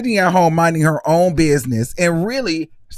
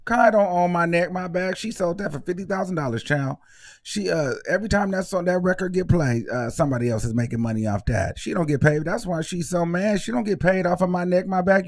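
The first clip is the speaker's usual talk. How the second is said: hushed gossip; 6 dB quieter than usual. Real, not acted. Gossip aside about Kai.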